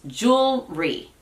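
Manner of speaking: "Jewelry" as two slow, separate beats, JOOL, REE; two syllables. Shown as a demonstration. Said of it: "Ahí claramente son dos sílabas".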